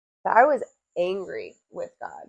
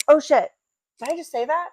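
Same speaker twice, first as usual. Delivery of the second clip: retold surprise; 6 semitones higher, 4 dB louder, faster than usual. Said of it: "I literally thought to myself".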